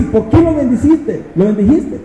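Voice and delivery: reclamo enojado, alto y lento. Acted. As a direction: Balac indignado reclama a Balaam. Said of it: "y Balac bien enojado". (Balac le reclama a Balaam, enojado y lento)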